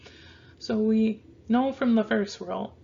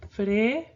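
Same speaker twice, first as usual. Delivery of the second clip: "frecuente" in parts, dwelling on cuen; fre, CUEN, te, sounded out with the middle stressed; emphasis on CUEN. Shown as a demonstration. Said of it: "our emphasis is gonna be on this quen".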